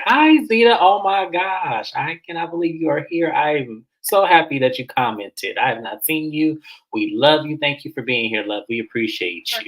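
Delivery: high, sugary mock greeting; fake gushing Ashley. Ashley gushing at a fan, mock sugary. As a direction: overdo the delight of spotting a fan.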